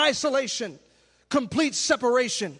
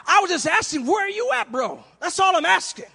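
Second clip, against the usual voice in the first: casual mock question; 7 semitones higher, 3 dB louder than usual. Voicing God casually asking Adam.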